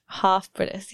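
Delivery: British "half" with a long broad ah; British accent. Shown as a demonstration. Host trying to sound half British to a British guest, British accent. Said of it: "I lost it again".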